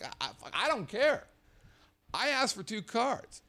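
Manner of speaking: annoyed guest insisting to the manager; exasperated arguing. Retold or imitated. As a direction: lay down the complaint firmly.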